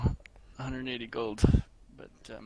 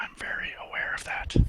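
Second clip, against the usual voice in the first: hushed whisper, close in to the ear. A character leans over to another character during the talk, whispering in his ear. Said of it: "whispers in his ear".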